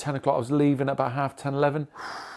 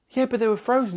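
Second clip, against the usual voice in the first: raised, heated retelling of his own complaint; pitched up, letting the anger show in the quote; angry retort; 10 semitones higher, 3 dB louder, faster than usual. Retold or imitated. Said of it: "and was getting really angry".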